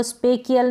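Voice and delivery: "स्पेकियल" with hard K, spe-ki-yal; wrong K sound. Shown as a demonstration. Teacher warning against a misreading, "स्पेकियल" with K. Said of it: "स्पेकियल नहीं पढ़ेंगे".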